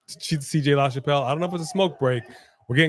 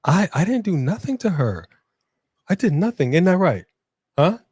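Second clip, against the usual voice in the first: higher, louder plea of innocence; mock-indignant protest; 5 semitones higher, 4 dB louder than usual. Host denying doing anything to her, mock-indignant protest.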